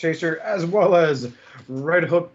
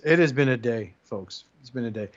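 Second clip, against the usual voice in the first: dramatic weariness; 6 semitones lower than usual. Acted. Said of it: "What a dramatic pause".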